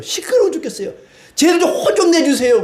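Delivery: high-pitched, put-out mock protest; complaining Pharisees. Pharisees complain to Jesus about the cheering crowd, high mock protest. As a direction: voice indignant bystanders, pitched well up. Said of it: "옆에 있던 바리새인들이".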